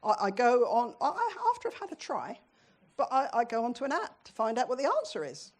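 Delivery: sheepish laugh. Real, not acted. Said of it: "I confess I cheat".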